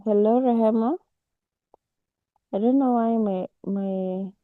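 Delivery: talking through a yawn; words stretched by a yawn. Real, not acted. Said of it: "I even heard you yawn".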